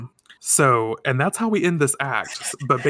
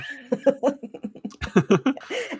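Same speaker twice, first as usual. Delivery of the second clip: squealing laugh, much higher; 14 semitones higher than usual. Real, not acted. Host cracking up at Mamoru caressing her face, high squealing laugh. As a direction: burst into a high giggle.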